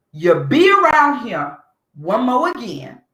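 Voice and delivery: acted no-nonsense threat; unvarnished threat. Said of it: "I would say it just like that".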